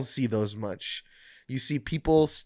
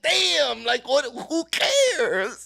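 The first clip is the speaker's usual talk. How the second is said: much higher, slow, laughing; laughing dismissal; 10 semitones higher, much slower than usual. Retold or imitated. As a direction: brush it off with a laugh. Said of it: "I'm like".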